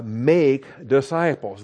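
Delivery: slow emphasis. Shown as a demonstration. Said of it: "That's the imperative".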